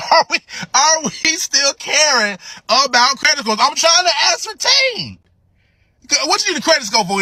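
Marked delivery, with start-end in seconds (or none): 0.0-3.6 asking again through a giggle; laughing. Real, not acted. Laughing while re-asking a friend about credit scores. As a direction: let the laugh leak into the question.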